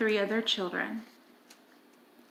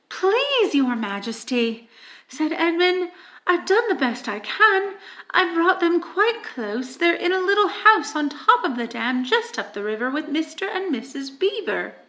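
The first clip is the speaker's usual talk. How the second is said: put-on pleading boy; 4 semitones higher than usual. Edmund pleading nervously.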